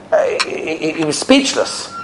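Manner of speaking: dropped almost to a whisper; hushed. Acted. Rabbi telling how the rabbi went speechless, hushed. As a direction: let the voice fall away in awe.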